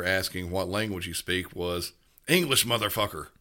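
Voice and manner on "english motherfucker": frustrated comeback, raised in pitch; punchline outburst of mock frustration; retold exasperated caller. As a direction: imitate a fed-up caller losing patience. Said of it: "guy on the other end was extremely frustrated".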